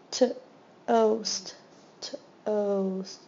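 segment by segment; sounding out toast. Shown as a demonstration. Teacher sounding out a word for students, segmented. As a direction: split toast into T and oast. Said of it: "long O".

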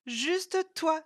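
high, loud teasing laugh; laughing retort. A narrator's reading. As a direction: tease her through a laugh. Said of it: "s'esclaffa Isa".

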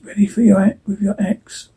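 hushed, urgent half-whisper. Acted. Father readying his son to fight, whispered. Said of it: "Pa whispers".

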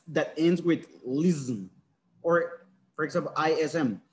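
slow spelling out. Shown as a demonstration. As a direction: spell the ending slowly, letter by letter. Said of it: "Please pay attention".

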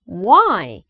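WHY said big, with a swooping fall; clearly enunciated WHY. Shown as a demonstration. English coach models for students to repeat, big clear WHY. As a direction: open WHY out wide and drawn out. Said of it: "크게 발음을 해주세요".

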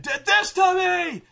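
loud, rising furious accusation; angry shout. Retold or imitated. Tempest accusing the palace intruders before the crowd, angry shout. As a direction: blast it at the crowd. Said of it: "And so he's like".

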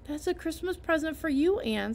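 a hint of a shy farmer; shy Matthew. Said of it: "said Matthew shyly".

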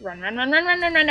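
urging yourself to flee; being chased. Real, not acted. Character chased by bull, urging.

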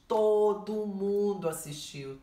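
TODO MUNDO stretched out slow and loud; emphatic TODO MUNDO. Real, not acted. Stressing how many people watched.

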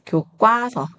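교과서 said as 교꽈서; tense the middle syllable of 교과서 to kkwa; tensed 과. Shown as a demonstration. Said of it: "과가 과 소리가 나잖아요". (교과서를 [교꽈서]로 된소리 발음)

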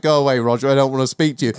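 hint of a sulky crook; criminal's reply. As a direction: shoo the reporter away. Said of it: "He's like".

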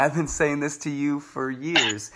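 exasperated, slow coach voice; mock exasperation at a stubborn athlete; frustrated coach. Coach to the athlete on rings, slowly exasperated. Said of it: "he was so pissed".

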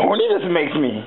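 1 Yoda impression. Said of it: "that's exactly how he talks".

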